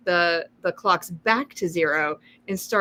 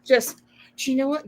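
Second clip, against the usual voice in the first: whispering; 5 semitones higher than usual. Real, not acted. Whisper heard.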